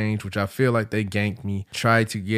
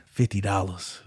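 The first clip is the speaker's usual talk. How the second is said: mild mock whisper; 3 semitones lower, 6 dB quieter than usual. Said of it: "she whispered in my ear".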